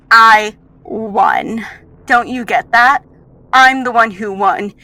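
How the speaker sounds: loud, emphatic villainous triumph; gloating rival. Acted. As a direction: rub the victory in forcefully.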